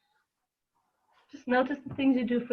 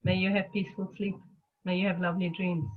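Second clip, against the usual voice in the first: softer, gentle goodnight blessing; gentle bedtime wish; 4 dB quieter than usual. Retold or imitated. Wishing herself peaceful sleep, softly tender. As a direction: hush it like tucking a child in. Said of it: "Putting myself to bed gently".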